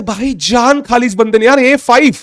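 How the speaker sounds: a lightly voiced fed-up Kasparov groaning about his opponent; exasperated Kasparov. Kasparov grumbling about the pesky opponent, lightly voiced and exasperated. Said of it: "कस्पारोव कहता है".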